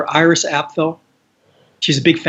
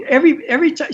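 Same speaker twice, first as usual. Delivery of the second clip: imitating Iris; 11 semitones higher, faster than usual. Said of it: "she goes".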